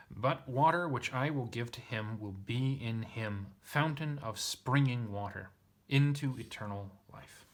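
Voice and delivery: emphatic, measured reading of a literal translation; lightly declaimed Bible verse; scripture read aloud. A narrator's reading. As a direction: read it out word by word with weight. Reads out own literal translation.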